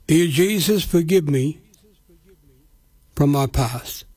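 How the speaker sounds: slow, measured prayer with long pauses between phrases; said slowly. Shown as a demonstration. Radio preacher leading listeners in a prayer, slow and measured. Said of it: "And I'll say it slow".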